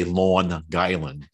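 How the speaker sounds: "Long Island" in a local Long Island accent, G run into "Island". Shown as a demonstration. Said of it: "I tried to not to say".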